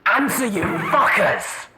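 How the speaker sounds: high, slow, desperate yell; screamed. Acted. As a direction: scream it at the silent radio. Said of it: "and then he screamed".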